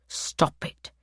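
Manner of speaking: soft, unvoiced stop it; quiet, menacing warning. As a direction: hush the command. Captor scolding quietly.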